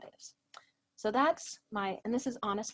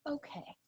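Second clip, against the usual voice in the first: big sigh; 6 semitones higher, 7 dB quieter than usual. Retold or imitated. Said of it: "her voice is like a big sigh".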